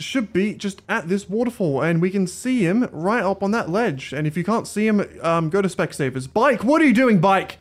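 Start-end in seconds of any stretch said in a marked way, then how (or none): 6.3-7.6 exasperated yell. Real, not acted. Yelling at his game bike.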